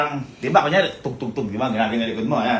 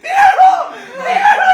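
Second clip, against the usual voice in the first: very high, loud taunting yell; loud laughing shout; 10 dB louder than usual. Real, not acted. (malakas na sigaw na may tawa)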